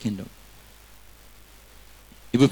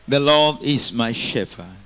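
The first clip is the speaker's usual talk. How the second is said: louder, slow and weighty; loud slow declaration; 4 dB louder, slower than usual. Shown as a demonstration. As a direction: declare it slowly and loudly. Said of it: "Say, neighbor".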